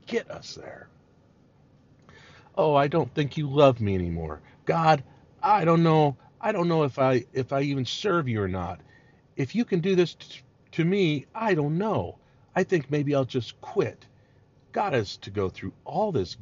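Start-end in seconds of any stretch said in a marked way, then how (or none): 2.6-14.1 petulant mock complaint, pitched up; whiny complainer. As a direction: whine like a sulking believer who wants to quit. Preacher voicing whining complainer to God.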